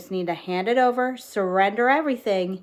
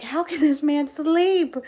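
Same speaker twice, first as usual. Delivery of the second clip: higher, drawn-out incredulous question; imitating someone baffled, pitched up; mock disbelief; 6 semitones higher than usual. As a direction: stretch it out in baffled protest. Acting out disciples' disbelief at sleeping Jesus.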